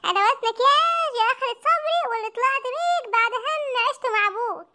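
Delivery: scolding mother. Acted. Mother scolds son mockingly.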